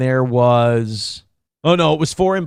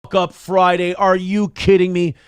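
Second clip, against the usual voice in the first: frustrated outburst; 4 semitones higher than usual. Retold or imitated. Inmate protesting court papers ruin release day, exasperated yell. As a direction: blurt it out like the plan just broke. Reacting to court order news.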